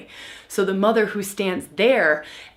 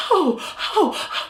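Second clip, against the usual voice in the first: mom melting down; 9 semitones higher than usual. Retold or imitated. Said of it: "And now mom is like".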